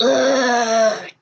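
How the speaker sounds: mock exasperated "ugh"; grumbling groan. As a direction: groan like someone grumbling to himself. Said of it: "quietly grumbling Grolix under his breath".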